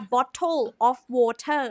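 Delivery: "bottle of water" slowly, aspirated T in bottle and water; clear pronunciation. Shown as a demonstration. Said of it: "แบบนี้ไปก่อน".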